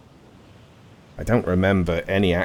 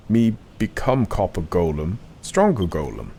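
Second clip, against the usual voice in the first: a hint of a lumbering golem talking; simple-minded golem. Reads golem dialogue aloud.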